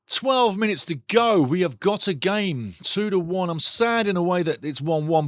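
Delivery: ordinary talk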